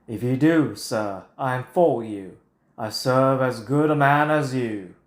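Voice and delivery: mock British accent. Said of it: "uh, British accent".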